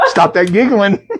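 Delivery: laughing while scolding. Real, not acted. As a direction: giggle through the telling-off. Telling friend to stop giggling.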